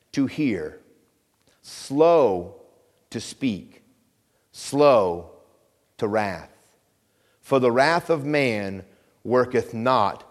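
slow, measured scripture reading with long pauses. Acted. Preacher reading the verse to his congregation, slow and deliberate.

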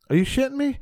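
high, disbelieving yelp; as if you can't believe what you're hearing; incredulous. Retold or imitated. Comic to the booker, squeaky with disbelief. Shocked to hear it's a kid's party.

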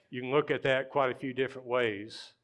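usual speaking voice

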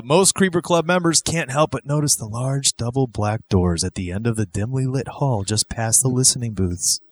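theatrical scene-setting read; spooky promo read. Acted. Host describes the black doors down the hall, spooky promo read. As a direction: lead the listener toward the mysterious doors.

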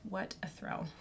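breathless and panting; short winded, gasping for air; gasping between phrases. Real, not acted. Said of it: "I'm out of breath".

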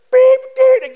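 very high, loud censor beeps; bleeped-out cussing. Retold or imitated. Teens cussing out the driver, imitated as loud bleeps. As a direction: shout bleeps in place of swear words. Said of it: "they cuss me out".

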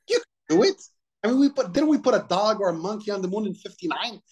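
heated, worked-up protest; exasperated rant. Real, not acted. Ranting at the corporate co-packers.

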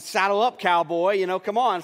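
put-on loud, jovial rally to a kid; hearty call. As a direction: boom it out like a playful dad. Dad accepting son's challenge.

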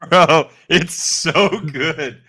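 slow, high, gushing praise; excited. Real, not acted. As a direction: rave about it. Raving about Jujutsu Kaisen.

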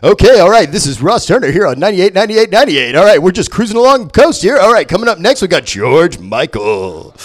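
sing-song DJ patter, dropping at the end; overhyped radio DJ. Acted. Biloxi DJ between every single song, overhyped patter. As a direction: hype up the next song like a local DJ. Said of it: "overhyped Biloxi D J".

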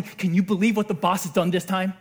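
low-key imitation of a workplace moan; disgruntled complaint. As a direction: grumble lightly about the boss. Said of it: "like a disgruntled employee complaining".

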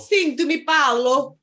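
put-on Italian accent warm-up. Testing the accent before the recap, mock Italian accent. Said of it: "do an Italian accent".

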